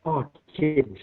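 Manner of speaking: a short Black Country greeting, lightly voiced; Black Country "Oh, kid" said casually; Black Country accent. Shown as a demonstration. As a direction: drop into Black Country dialect for a moment. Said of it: "I would speak a bit like this".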